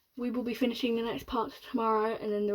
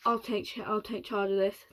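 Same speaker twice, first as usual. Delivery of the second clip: deep rasping voice. Acted. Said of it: "deep and rasping".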